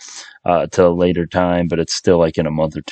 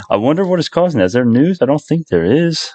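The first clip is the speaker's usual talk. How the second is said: surprised; 8 semitones higher than usual. Real, not acted. Surprised at stock jump.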